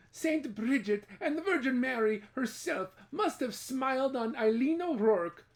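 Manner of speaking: high, amused village gossip; gossiping village women. Acted. Village women gossiping about Eileen, high and amused. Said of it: "the village women said".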